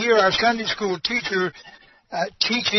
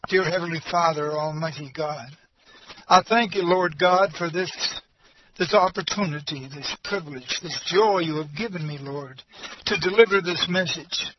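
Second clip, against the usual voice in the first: prayer. Acted. Opening prayer.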